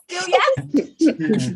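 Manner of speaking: high, loud amused laugh into a question. Real, not acted. Teacher reacts to students still finding tones difficult, laughing. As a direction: ask it through real laughter.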